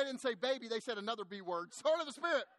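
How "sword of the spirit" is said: high, loud mock victory cry; triumphant cheer. Waitresses celebrate chasing Chuck out, mock triumphant cheer. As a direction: punch it out like a high-five slogan.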